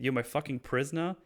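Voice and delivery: an incredulous, lightly heated question; angry challenge. Acted. Oz mocks the idea Vic is his prisoner, mildly angry. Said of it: "I like how angry Oz is here".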